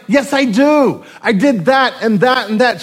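defensive husband. Retold or imitated. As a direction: insist you did it all, raising your voice.

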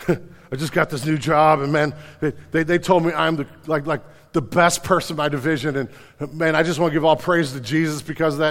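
a light put-on humble-brag voice; bragging churchgoer. Pastor mocking the bragging group member, lightly voiced. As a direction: lightly play the smug brag guy. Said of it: "the fake glory of God, so I can brag guy".

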